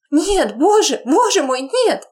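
high desperate wail; terrified cry. Acted. Woman dragged off by guards, terrified wail. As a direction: wail in terror.

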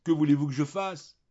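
high, loud, acted wail of helplessness; tearful plea. A narrator's reading. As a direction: cry it out as if sobbing. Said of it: "Elle sanglotait". (plainte éplorée, aiguë et forte)

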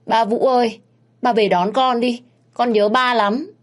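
put-on a small girl crying for her father; sobbing little girl. A narrator's reading. Little girl on video call begging her dad, tearful and high. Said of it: "Con bé nhìn thấy ba thì khóc nức nở".

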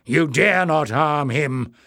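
slow, loud, stern threat; stern warning. A narrator's reading. Bada threatens captors.

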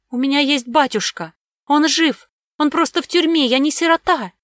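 put-on high, loud, scared girl's protest; frightened child. A narrator's reading. Little girl protesting to armed men, high and frightened. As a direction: insist on it though terrified. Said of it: "с боязнью смотря на опасных мужчин".

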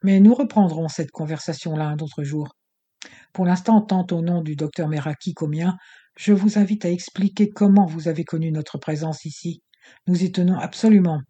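put-on furious villain pressing a girl; cold rage. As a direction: demand it with barely held fury. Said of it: "jaune de rage".

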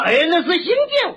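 Shandong accent. Shown as a demonstration. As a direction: imitate a Shandong man saying zhang as jiang. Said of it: "那山东人说话".

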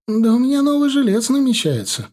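landlady proudly brags to Vitya; boasting. A narrator's reading. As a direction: brag about the new tenant. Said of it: "похвасталась она".

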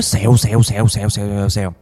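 rapid repeated sizzle sound; storyteller's sizzle effect; imitated sizzling. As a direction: mimic skin hissing as it smokes. Imitating the sizzle of burning skin.

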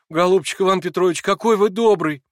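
высоко и громко; восторженная благодарность; восторженно. A narrator's reading. (Алёша восторженно благодарит Ивана Петровича)

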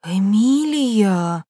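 a drawn-out, scandalised cry of the name; a teacher's stunned gasp; shocked gasp. Acted. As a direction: gasp as if she heard something indecent. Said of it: "ахнула она".

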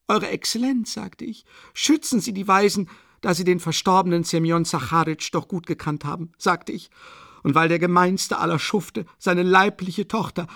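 high-pitched, haughty, worked-up woman's voice; agitated proud widow. A narrator's reading. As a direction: plead your noble standing, high and indignant. Narrator plays agitated Katharina Iwanowna. (aufgeregte, stolze Witwe mit hoher Stimme)

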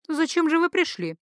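high, drifting and absent; floating, faraway wondering; dreamy priestess question. Acted. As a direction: ask it as if half in a trance. Priestess asks dreamily, mind drifting.

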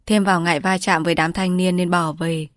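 plain reading voice

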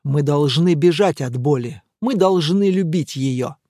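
ordinary delivery, nothing marked

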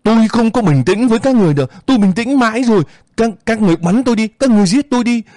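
very high, loud, fast screaming defiance; hysterical scream. Acted. Grieving mother screams at the soldiers, very high and loud. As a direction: hurl it at them, desperate.

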